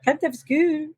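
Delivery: high mock-tearful Scottish accent; little Scottish girl. Echoing co-host's quote of devastated girl, high Scottish wail. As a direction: echo the wailing Scottish child, high-pitched. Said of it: "it's the little Scottish girl".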